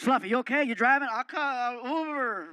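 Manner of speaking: loud, barking tough-guy voice; gruff Stone Cold voice. Retold or imitated. Wrestler calls to Fluffy from his door, loud gruff bark. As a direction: play the brash wrestler calling out. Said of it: "he goes".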